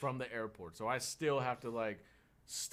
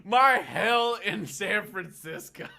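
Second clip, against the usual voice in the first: slow and louder; dramatic summary; 8 semitones higher, 11 dB louder, much slower than usual. Real, not acted. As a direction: drag it out mournfully. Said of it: "sums up ordeal".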